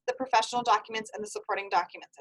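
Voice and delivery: rattled off quickly; fast and furious. Shown as a demonstration. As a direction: rush through the list. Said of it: "I'm gonna start talking fast and furious".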